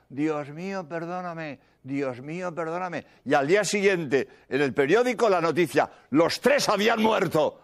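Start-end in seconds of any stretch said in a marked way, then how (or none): 0.1-3.1 much softer, as if heard from inside the car; a faint voice repeating a prayer. Retold or imitated. A dying crash victim praying from the wreck, faint and soft. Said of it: "oí una voz que decía".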